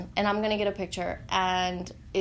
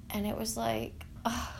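breathy whisper, overcome; barely voiced, emotion catching the breath; 6 dB quieter than usual. Real, not acted. Whispering as she recalls hearing his voice.

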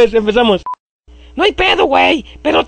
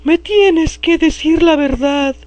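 slow; 3 semitones higher, much slower than usual. Acted. Slow acted interrogation.

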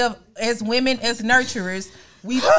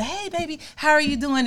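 docile greeting; 4 semitones higher than usual. Retold or imitated. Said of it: "I have to be docile".

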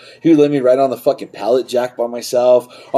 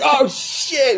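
mock panicked teen. Teen self caught.

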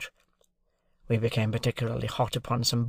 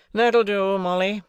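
higher, louder curt dismissal; dismissing the servant; 8 semitones higher, 5 dB louder than usual. Acted. Jaggers dismissing Molly, curt and higher. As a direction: wave her off with a word. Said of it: "giving her a slight nod".

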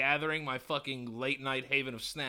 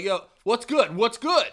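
loud, raised-pitch confrontational retort; acted challenge; 7 semitones higher, 9 dB louder than usual. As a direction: square up to him loudly. Acting out his challenge back.

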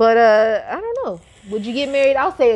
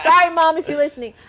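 laughing apology; 7 semitones higher, 5 dB louder than usual. Real, not acted. Joking apology to his mom.

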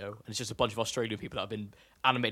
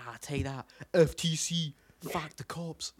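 mock Australian troublemaker, rising in pitch; Australian accent imitation; 3 semitones higher, slower than usual. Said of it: "an imitation of this one YouTube".

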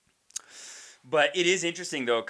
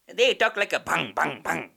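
mock Indian-auntie accent, twanged repeated syllables; imitated auntie's accent; 4 semitones higher than usual. Comic repeating auntie's line, mimicked Indian accent. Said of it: "she goes, she goes".

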